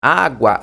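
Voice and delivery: ÁGUA with the "gua" glide opening into a full A; crisp demonstration of água; rising diphthong demo. Shown as a demonstration. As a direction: let the sound of água grow into the final A. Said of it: "Percebe que é crescente o, o som".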